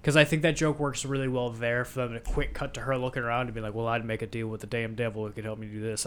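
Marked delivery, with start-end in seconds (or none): 3.8-6.1 lightly voiced Southern accent; a touch of Southern twang in a quote. Imagining her quick-cut line in the movie, light Southern accent. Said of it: "I gave her a southern accent".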